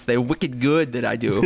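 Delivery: hint of a Boston accent; wicked good, said the Boston way. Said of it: "sneak in those Boston accents".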